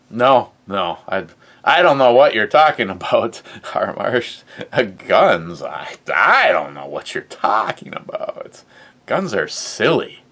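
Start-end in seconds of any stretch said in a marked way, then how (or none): 0.1-3.4 quick, louder fake-innocent protest; mock innocent denial. Feigning innocence about guns. 5.6-8.6 lower, put-on voice for a hammed-up denial; put-on deep voice.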